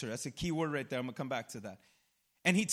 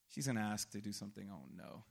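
much lower, softer, mock dread; hushed inner dread; 13 semitones lower, 10 dB quieter than usual. Husband fearing his wife's request, hushed mock dread. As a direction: murmur it like a doomed husband.

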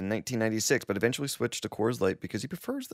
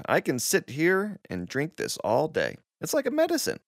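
put-on old man voice; 5 semitones higher than usual. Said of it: "I quote".

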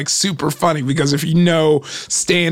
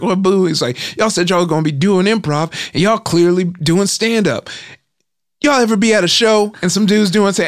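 mock heckler rant; 5 semitones higher than usual.

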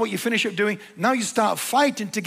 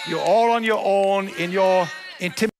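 a raised, pointed declaration; emphatic declaration. Real, not acted. Preacher telling the congregation the problem is theirs, raised and emphatic. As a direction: land it firmly on the listeners. Preacher hands blame back to listeners.

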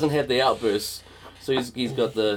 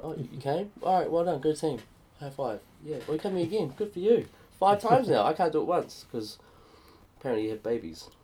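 mock congratulations; 3 semitones higher than usual. Sarcastic quiet congratulations.

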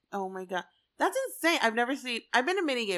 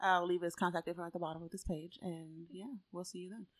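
hushed, then fading to near silence; whisper yelling; 5 semitones lower, 13 dB quieter than usual. Real, not acted. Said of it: "why are we whispering?".

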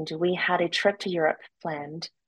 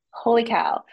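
higher and louder burst of surprise; stunned exclaim; 6 semitones higher, 5 dB louder than usual. Retold or imitated. Retelling her shock over the late period, exclaimed. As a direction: blurt it out, floored.

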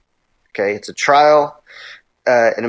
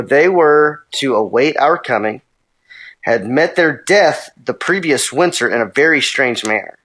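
reading a quote. Acted. Reads a Jesuit quote.

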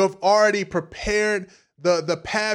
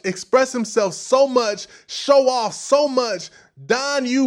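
building sermon preaching; 2 semitones higher than usual. Acted. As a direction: drive it home like a pastor at full stride. Preaching to the congregation.

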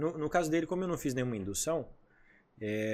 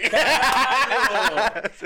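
big laugh, higher and louder; loud burst of laughter; 9 semitones higher, 8 dB louder than usual. Real, not acted. Laughing hard at his friend's joke about Pyong Lee. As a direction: crack up loudly at the name.

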